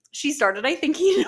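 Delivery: giggling through the song title; laughing with excitement. Real, not acted. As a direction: let the laugh bubble in. Recalling favorite song, laughing.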